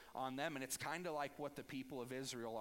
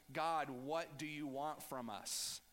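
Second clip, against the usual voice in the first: mock sarcastic people; slower than usual. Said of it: "do you see the sarcasm".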